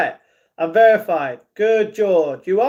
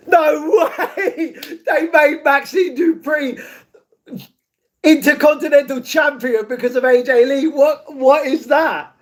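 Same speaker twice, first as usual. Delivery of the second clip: higher, half-laughing, then a shouted name; excited disbelief; 5 semitones higher than usual. Real, not acted. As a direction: react like a fan who can't believe it. Wrestler returns, streamer reacts.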